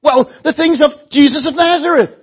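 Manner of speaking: loud, high exasperated retort; Cleophas. Acted. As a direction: throw it back as if utterly obvious. Cleophas retorts, astonished at the question.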